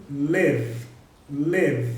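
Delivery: "live" ending in a voiced V; vibrating final V. Shown as a demonstration. Teacher demonstrating a vibrating ending, "live" with voiced V. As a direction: let the cords buzz on the V ending "live". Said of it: "esse V final aí".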